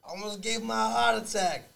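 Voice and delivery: high, slow, dramatic Ma; milk the guilt in a high mama voice; Italian-American mother. Acted. Ma scolding her vegan son, high and drawn out. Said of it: "I'm gonna set up a scenario".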